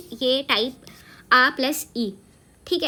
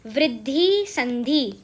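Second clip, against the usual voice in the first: slow answer; much slower than usual. Shown as a demonstration. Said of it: "तो आप क्या उसे बोलोगे".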